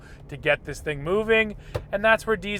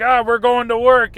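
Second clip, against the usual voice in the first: straining engine; 5 semitones higher, 8 dB louder than usual. Pretend. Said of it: "engine kind of screaming".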